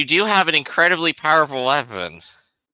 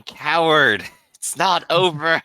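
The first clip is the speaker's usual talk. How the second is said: half-raised battle cry, drawn out; mock screaming; 3 semitones higher, slower than usual. Player as attacking Arthur taunting his foe, mock screamed. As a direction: cry it out slowly, a toned-down scream. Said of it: "while just screaming".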